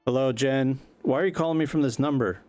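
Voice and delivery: growing alarm at a stranger on the line; irritated rock star. Acted. Kerry answering the unknown caller, baffled and annoyed.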